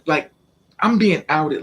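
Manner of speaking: ordinary talk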